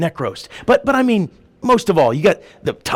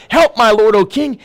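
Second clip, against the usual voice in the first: mild raised plea, slightly acted; crying out; 4 semitones higher, 4 dB louder than usual. Preacher retells woman's plea to the king, crying out. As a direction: imitate the woman calling out. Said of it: "she cries out and says".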